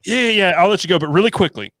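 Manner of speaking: teasing imitation of a friend who won't hang up; imitating co-host. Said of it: "And Jeremy's like".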